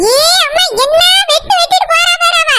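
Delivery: lightly voiced scolding woman; bossy wife. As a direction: order her about like a cranky mistress of the house. Grumbling about headache, ordering.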